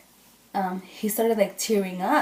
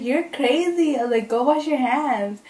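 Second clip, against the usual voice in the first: higher-pitched retold protest; mock exasperation; 5 semitones higher than usual. Teasing the boy about keeping her blood, mock exasperated. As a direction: lightly exclaim it in disbelief.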